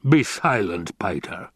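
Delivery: understated stern order, dropping at the end; mild, falling command. Acted. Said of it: "the laughter stopped as though shut off with a switch".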